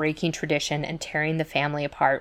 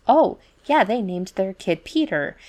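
higher, louder fake-casual "Oh, yeah"; mock breezy in-laws; 3 semitones higher, 4 dB louder than usual. In-laws tell their friends the kid is Peter, mock breezy. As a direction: toss off the lie brightly.

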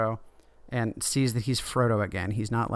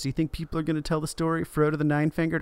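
excited Sam; 5 semitones higher, faster than usual. Retold or imitated. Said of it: "And Sam is like".

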